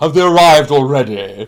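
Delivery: very loud, booming, high voice. Retelling waiting nervously for Tom to arrive, imitating Tom's booming voice. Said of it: "this booming voice saying".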